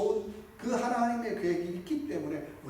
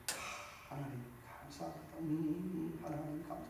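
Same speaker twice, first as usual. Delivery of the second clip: soft, hushed thanksgiving; a hushed, reverent prayer; quiet prayer; 10 dB quieter, slower than usual. Shown as a demonstration. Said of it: "어떻게 조용히".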